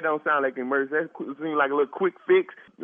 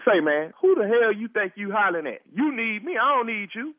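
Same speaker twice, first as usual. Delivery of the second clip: angry; 5 semitones higher than usual. Real, not acted. Neighbor snaps back at yelling caller.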